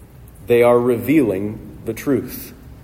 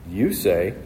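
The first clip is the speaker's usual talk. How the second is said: "You" leaned on, "say" falling away; "You say" with emphasis on "You"; stress on YOU; 3 semitones lower than usual. Shown as a demonstration. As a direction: put the weight on "You". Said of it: "the emphasis is on you".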